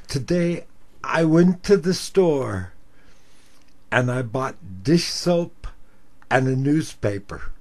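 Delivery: put-on slow, dragged-out old lady; slow old caller. Old caller telling the host her errand, slow and rambling.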